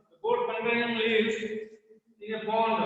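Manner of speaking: lightly imitated European English, mouth barely open; European accent, mouth half-closed. Shown as a demonstration. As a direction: read like a European who doesn't open the mouth fully. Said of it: "They don't open the mouth".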